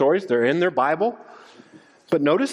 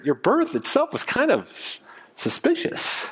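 distrust creeping in; skeptical unbelief. Retold or imitated. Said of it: "one of skepticism, of unbelief".

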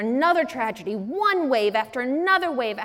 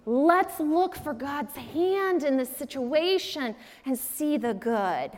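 lightly voiced, softer sugary platitudes; mock pious friend; 3 dB quieter than usual. Preacher mimics the pious friend's catchphrases, soft and syrupy. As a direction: coo the catchphrases like a sweet churchy friend. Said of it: "the Christian friend that has all the catchphrases".

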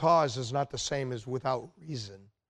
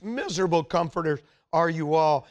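mild sarcasm on Miserable comforters; sarcastic. Retold or imitated. Job mocking his friends, lightly sarcastic. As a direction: let a dry sneer color Miserable comforters. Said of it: "he just sarcastic says".

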